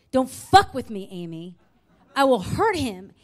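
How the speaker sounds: mock menacing phone threat; retold threat, hard stresses on key words; imitated threatening caller.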